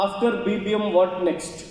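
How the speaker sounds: slow grilling. Retold or imitated. Interviewer grilling acted out.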